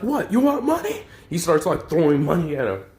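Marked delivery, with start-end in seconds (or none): 0.0-1.0 high, cracking mock rage with a laugh in it; angry distorted rant. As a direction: sneer at him while laughing in disbelief. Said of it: "angrily distorted".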